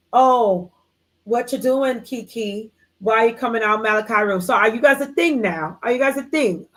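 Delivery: hammed-up, badly faked British accent; horrible London accent. Friend catching Kiki leaving a room, mock London accent. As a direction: put on a bad London accent, nosy questioning. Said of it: "You guys like my horrible London accent".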